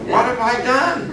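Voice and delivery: high, half-laughing what have I done; rueful laughing dismay. Retold or imitated. Preacher alone on stage, laughing in dismay. Dismayed self-questioning after walkout.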